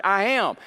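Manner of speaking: "I am" firmly punched; stress on I AM. Shown as a demonstration. Preacher correcting where the emphasis falls, stressed I AM. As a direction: put the weight on "I am". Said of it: "The emphasis is on the word".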